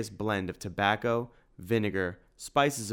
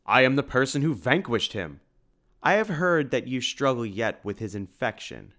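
gruff bear-like voice; 4 semitones higher, 5 dB louder than usual. Acted. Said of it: "growled the man in a bear-like gruff voice".

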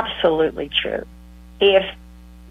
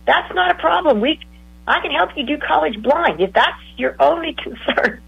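higher, insistent reassurance; eager encouragement; 6 semitones higher than usual. Retold or imitated. Counselor urging a client going blind, higher and insistent. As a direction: push hard to convince her she can do it. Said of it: "felt like was me yelling at her".

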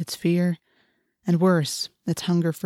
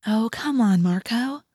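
lightly raised, coaxing voice; gentle chiding; 4 semitones higher than usual. Acted. Girl coaxing her grumbling friend, gently chiding. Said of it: "Cassie chided gently".

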